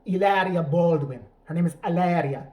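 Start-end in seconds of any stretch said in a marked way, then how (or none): 0.0-1.2 heavy put-on Spanish accent on the name; drawn-out faux-Spanish pronunciation; fake Spanish accent. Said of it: "will tell you in that accent". 1.8-2.5 mock Spanish accent on the name; put-on Spanish lilt; fake Spanish accent. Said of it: "will tell you in that accent".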